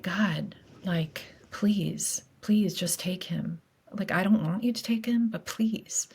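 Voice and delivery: hushed, breaking plea, half whispered; desperate prayer. Retold or imitated. Wife at the window praying for dying husband, desperate.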